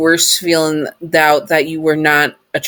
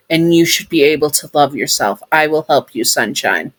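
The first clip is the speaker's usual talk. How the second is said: tender promise. Acted. Sun promising comfort.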